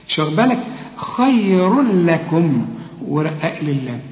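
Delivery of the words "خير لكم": "خير لكم" with the n vanished into a doubled l; slow recitation, join as khayrul-lakum; full idgham. Shown as a demonstration. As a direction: merge cleanly into "لكم" without a hum. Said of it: "هنا التنوين هيخش في اللام وما يبانش".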